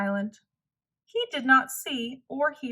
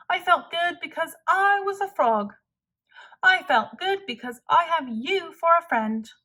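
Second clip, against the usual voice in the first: happy Frog; 4 semitones higher than usual. Acted. Frog voiced, content.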